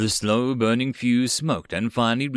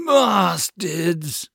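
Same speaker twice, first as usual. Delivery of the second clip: loud, higher-pitched angry cry; shouted curse; 7 semitones higher, 5 dB louder than usual. A narrator's reading. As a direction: yell it as the grenades go off. Hero cries out as grenades explode.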